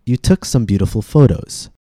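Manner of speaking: "took" with a puffed T, "beautiful" and "photos" tapped; aspirated and tapped T. Shown as a demonstration. Teacher contrasting two T sounds, aspirated in "took", tapped in "beautiful" and "photos". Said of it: "contrast the tap T with the aspirated T".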